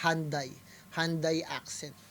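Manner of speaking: Hyundai said as "HAN-dai"; local pronunciation. Shown as a demonstration. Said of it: "paano namin i-pronounce yun dito". (bigkas dito ng Hyundai, "HAN-dey")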